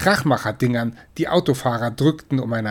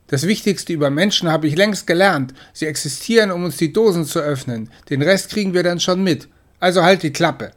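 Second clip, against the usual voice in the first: smug kitten; 5 semitones higher, 3 dB louder than usual. Acted. Cocky brother Mirko.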